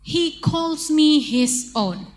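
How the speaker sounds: slow, careful lyric read; teacher reading a song line to children; reading lyrics slowly. Shown as a demonstration. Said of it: "verse yang kedua".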